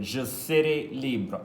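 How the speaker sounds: slow model reading. Shown as a demonstration. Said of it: "the verb être is conjugated".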